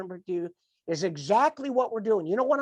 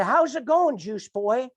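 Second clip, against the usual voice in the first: sarcastic mock; 3 semitones higher, slower than usual. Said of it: "they would sarcastically mock me".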